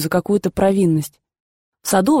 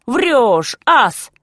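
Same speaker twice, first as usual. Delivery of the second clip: sharp raised correction; scolding shout; 5 semitones higher than usual. Retold or imitated. Grandfather correcting boy.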